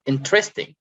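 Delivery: "interesting" with the stress on IN; stress on first syllable. Shown as a demonstration. Teacher showing students word stress, first-syllable stress on "interesting". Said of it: "you stress on in".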